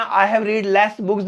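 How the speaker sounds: very slow, drawn out; slow wrong example. Shown as a demonstration. Teacher reads out the wrong sentence slowly. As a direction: stretch the mistaken sentence. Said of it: "नहीं".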